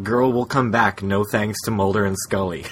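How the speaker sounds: ordinary delivery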